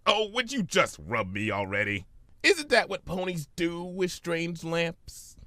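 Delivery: lightly voiced whiny trickster; Discord. Discord in the lamp whining at Fluttershy, lightly voiced. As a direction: whine impatiently from inside the lamp.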